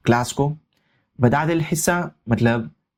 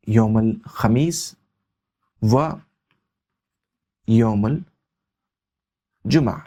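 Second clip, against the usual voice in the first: slow drawn-out reading; 3 semitones lower, much slower than usual. Shown as a demonstration. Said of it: "teacher reads day names slowly".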